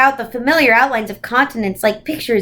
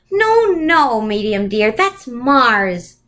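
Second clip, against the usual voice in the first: gentle reproof; much slower than usual. Acted. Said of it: "reproved gently".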